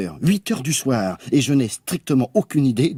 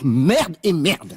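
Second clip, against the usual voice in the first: frustrated swearing; 6 semitones higher, much slower than usual. Acted. Sulking over ruined evening.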